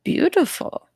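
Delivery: grand introduction of himself; character voice. Acted. In-character voice for Spectral Hans.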